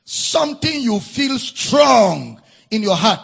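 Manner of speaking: slow, weighty pulpit delivery; deliberate preaching with punched words; emphatic preaching. Acted. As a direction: drive each phrase home, drawing out the key words. Preaches emphatically on heartfelt petition.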